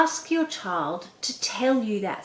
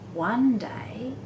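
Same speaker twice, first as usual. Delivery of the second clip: whispered, drawn-out storytelling hook; expressive read; 3 semitones higher than usual. Shown as a demonstration. Parent showing kids how to start a story, hushed. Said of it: "if I say it like this".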